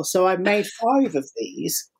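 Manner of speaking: slow breathy whisper of a confession. Real, not acted. Telling the host about the flowers, in a slow whisper. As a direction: whisper it slowly, like a secret.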